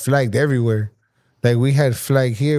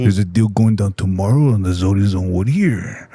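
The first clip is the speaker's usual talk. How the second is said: Arnold impression; 6 semitones lower than usual. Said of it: "That's Arnold".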